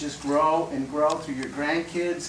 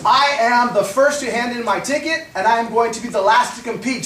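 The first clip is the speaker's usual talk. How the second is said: louder, raised declaration like a soldier reporting; mock formal declaration; 4 semitones higher, 5 dB louder than usual. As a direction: announce it stiffly and proudly. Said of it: "He goes".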